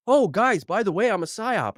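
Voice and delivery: high, loud, breezy mock confession; mock cheery confession. Podcaster imitating a singer cheerfully confessing. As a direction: play the star casually admitting it.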